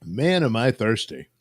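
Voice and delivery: just swallowed a drink; talking right after gulping water. Real, not acted. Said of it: "I apologize for all the noise of my gulping".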